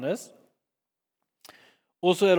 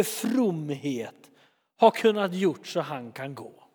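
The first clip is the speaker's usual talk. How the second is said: solemn question; much slower than usual. Retold or imitated. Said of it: "säger de någonting som är så otroligt viktigt".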